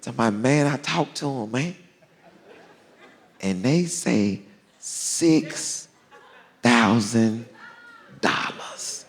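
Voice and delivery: halting, timid delivery trailing into a near-whisper; hesitant bearer of bad news. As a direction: play him timid, dragging out the dreaded amount. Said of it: "sounding all timid".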